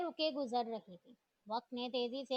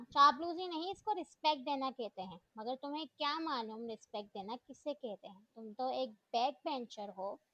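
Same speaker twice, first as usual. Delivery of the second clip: indignant retort. Acted. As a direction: snap back, then sneer. Rival girl retorts in quarrel.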